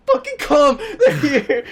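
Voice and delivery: high, loud mock-desperate yell; urgent calling out. Driver yelling for friends to run, retold urgent shout. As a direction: call them back to the car.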